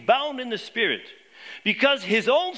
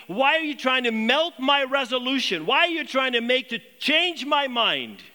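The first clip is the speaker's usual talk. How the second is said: raised, insistent appeal, stretching the final words; pained protest; 4 semitones higher than usual. Acted. Paul to friends who would change his mind, pained protest. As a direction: press them with a mildly anguished question. Preacher rewords Paul's protest.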